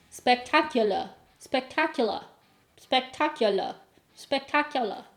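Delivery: trying out an American "Spectacular"; unconvincing American accent drill; attempted American accent. Shown as a demonstration. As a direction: practise "Spectacular" with a dropped final r, American attempt. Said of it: "That doesn't sound like any American accent".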